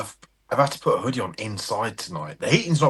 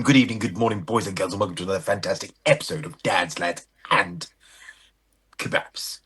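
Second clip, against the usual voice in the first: mock posh English; 2 semitones lower than usual. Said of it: "when did people stop speaking like that".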